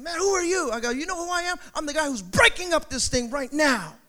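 high, challenging back-and-forth; retold confrontation. Preacher retelling facing down the angry man, high-pitched challenge. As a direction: act out squaring up to someone.

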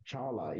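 "Chala" said with no T sound, just cha-la; name pronunciation. Shown as a demonstration. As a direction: say "Chala" clearly, leaving the T silent. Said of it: "You don't pronounce the T".

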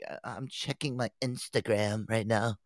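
slow, offhand phone-absorbed girl imitation; mock distracted girl. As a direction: drawl it like someone glued to her phone. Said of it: "can we have a conversation".

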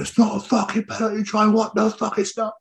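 high-pitched, outraged retold protest; shouting England fan. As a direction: imitate an indignant drunk fan yelling. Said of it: "He was, like, shouting stuff".

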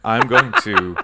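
mock-official radio announcer, lightly put on; deliberate, measured announcement with pauses. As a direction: play the radio host making an official statement. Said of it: "talk in my radio voice".

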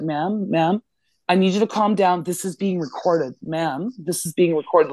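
measured, mildly placating cop voice; retold calming officer. State trooper trying to calm the driver down, retold placating tone. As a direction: imitate an officer talking someone down. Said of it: "trying to calm me fucking down".

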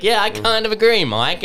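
high, laughing agreement. Retold or imitated. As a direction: agree while cracking up. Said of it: "I was like".

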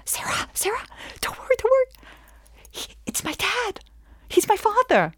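very high, hushed squeal; urgent stage whisper. Acted. Client tips off her lawyer about the judge, excited whisper. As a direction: squeal it under your breath, thrilled.

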